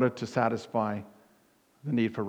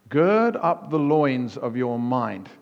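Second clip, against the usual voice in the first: slow, weighty scripture reading; slow, stately King James reading; solemn reading; 4 dB louder, slower than usual. Shown as a demonstration. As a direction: read "Gird up the loins of your mind" slowly, stressing "Gird". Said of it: "The New King James Version says this".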